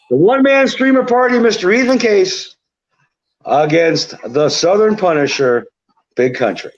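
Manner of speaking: ring announcer. Pretend. Host revealing the tournament's rematch, ring-announcer style. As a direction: announce the contenders with pauses between names. Announces the final's matchup as bombshell.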